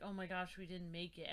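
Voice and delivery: low, soft, deflated quote; depressed. Retold or imitated. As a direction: imitate quiet defeat. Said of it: "I was so depressed".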